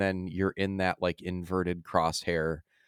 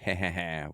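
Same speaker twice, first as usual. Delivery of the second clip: imitated bug cackle, evenly spaced; put-on villain's chuckle; mock gloating laugh. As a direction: fake "ha ha ha" of scheming bugs. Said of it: "these bugs are like".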